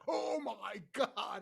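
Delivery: slow, soft, drawn-out "Oh my God" with a stunned face. Shown as a demonstration. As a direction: let "Oh my God" sink out slowly and quietly. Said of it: "I actually did the "Oh my God" face".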